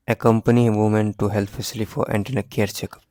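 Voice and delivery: reading the statement out slowly, word by word; slow dictation. Shown as a demonstration. Teacher reading an exam statement to students, slow and clear.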